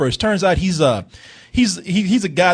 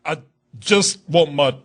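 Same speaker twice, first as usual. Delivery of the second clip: mock tearful plea, badly faked sob; fake crying; 3 semitones lower than usual. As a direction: fake a tearful dad, unconvincingly. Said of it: "you ain't crying".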